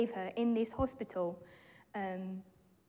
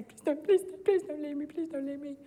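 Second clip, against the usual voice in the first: higher, desperate daughter's plea; pleading; 3 semitones higher than usual. Retold or imitated. Frightened daughter begging her mum not to leave, desperate plea. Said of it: "Chloe's freaking out".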